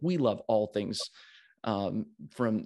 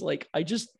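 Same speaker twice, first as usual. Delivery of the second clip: very high, squealy gush; excited gushing; 4 dB louder than usual. Real, not acted. Host gushes to the guest about finally recording, excited high squeal. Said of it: "how excited I am".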